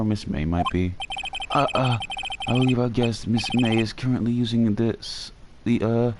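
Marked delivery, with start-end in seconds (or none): 1.5-6.1 put-on higher, polite old-fashioned bellboy; Alfred voice. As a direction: play an eager, chirpy butler-type bellhop. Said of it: "So I'm gonna do the Alfred voice".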